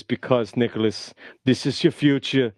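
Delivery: a light hint of a lecturing action hero, barely changed voice; half-hearted muscleman warning his friend about his health; Arnold Schwarzenegger. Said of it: "And he says".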